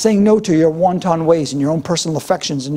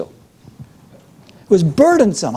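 drawn-out word; much slower than usual. Real, not acted. Stretched word burdensome.

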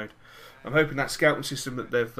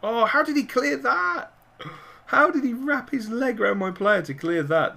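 higher, louder, disbelieving rage; raging; 10 semitones higher, 5 dB louder than usual. Real, not acted. Gamer raging at the screen over a clearance, loud and high. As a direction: rant at the defender's clearance. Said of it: "please excuse me while I rage".

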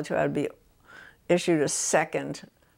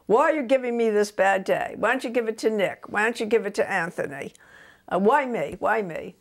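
mild mock outrage, a bit higher; furious child; 4 semitones higher than usual. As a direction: imitate an indignant four-year-old, fast. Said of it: "he got absolutely furious with me".

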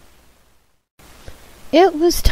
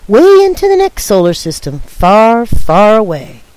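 excited build-up; 3 dB louder than usual. Acted. Building dramatic space tale.

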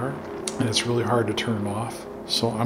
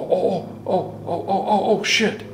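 rising, higher startled gasps; 6 semitones higher than usual. Real, not acted. Investigator startled by a sudden ghostly trigger, rising yelps. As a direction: yelp as something suddenly goes off. Something touches near hunter.

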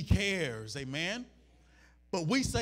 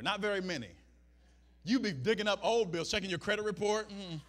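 ordinary talk

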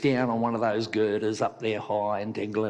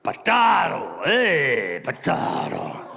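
loud hammed-up Irish exasperation; mock-Irish outburst, starting high and loud; Irish character; 6 semitones higher, 6 dB louder, slower than usual. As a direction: cry out as a joke Irishman. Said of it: "the Irishman opened his lunchbox".

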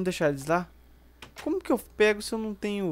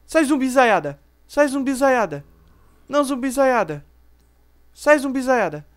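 shouting at zombies; 4 semitones higher, 6 dB louder than usual. Real, not acted. Shooing zombies away.

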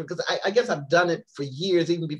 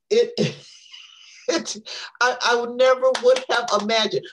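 louder and higher, rushing; excited; 6 semitones higher, 6 dB louder than usual. Real, not acted. Telling Kimberly the trip, excitedly louder. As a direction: burst out with amazement. Overwhelmed by the experiences.

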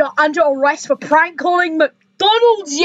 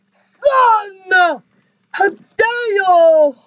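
slow, crying outrage; mock outraged mom; 2 semitones higher, much slower than usual. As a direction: drag out the scolding. Mom furious at the son.

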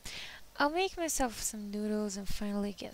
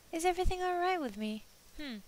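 confused echo; 7 semitones higher, faster than usual. Acted. Narrator echoing friend's question.

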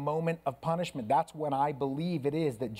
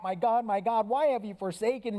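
crying out; 5 semitones higher than usual. Acted. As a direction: cry it out to heaven in agony. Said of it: "what the sound must have been like".

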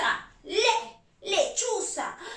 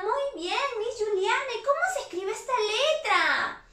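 imagined pupil; 6 semitones higher than usual. Pretend. Voices pupils addressing Miss Juliana.

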